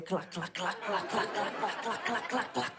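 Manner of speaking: repeated soft "clac" slaps; imitated slapping noise. Comedian miming slaps on the thigh all day, imitated slapping. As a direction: make the slapping sound over and over.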